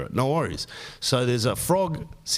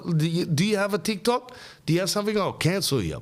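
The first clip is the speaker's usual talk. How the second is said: mock threat; 5 semitones higher, faster than usual. Scorpion threatens to cancel.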